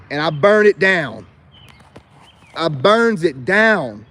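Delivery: slow, loud, deliberate threat; menacing boast. Real, not acted. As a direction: lean into each word like a warning. Boasting of his savage sergeant side.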